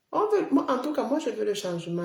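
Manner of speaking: excited. Real, not acted. Streamer insisting to viewers that he wants change, excited. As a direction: proclaim it with fire. Passionate political claim.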